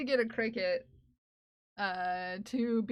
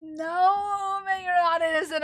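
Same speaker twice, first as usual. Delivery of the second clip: higher, louder, fast mock accusation; mock accusing; 4 semitones higher, 5 dB louder than usual. Streamer calling out chatter Omega, mock accusing. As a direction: call the chatter out in playful outrage.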